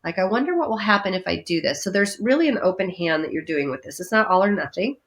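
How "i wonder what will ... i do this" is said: curious. Pretend. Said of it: "from a place of curiosity".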